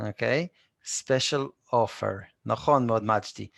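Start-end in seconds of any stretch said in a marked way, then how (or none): 0.8-2.2 slow clear model. Shown as a demonstration. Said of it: "מבצע זה special offer".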